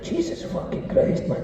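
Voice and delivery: whispered, high-pitched aghast; shocked whisper. Retold or imitated. Shampoo boy reacts to the widow's sad words in a whisper. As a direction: gasp it out under the breath.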